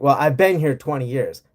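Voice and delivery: lightly mimicked Southern accent; mock a transplant's Southern accent; imitated Southern accent. Transplant insisting to a sceptic they belong, imitated Southern accent. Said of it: "has a very clearly Southern accent".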